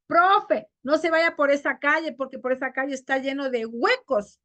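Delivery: someone warning, "huecos" as güecos. Acted. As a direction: call out, putting g on "huecos". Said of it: "si a mí me dice".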